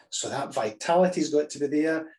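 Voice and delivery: normal talking voice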